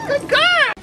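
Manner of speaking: very high, bright dog praise; squeaky praising a dog. Real, not acted. Praising dog after trick.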